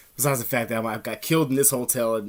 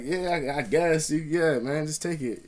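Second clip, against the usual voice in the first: higher, noncommittal mock of himself; imitated old self; 3 semitones higher, slower than usual. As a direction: give in reluctantly, imitating his old self. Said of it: "he was just doing my shit".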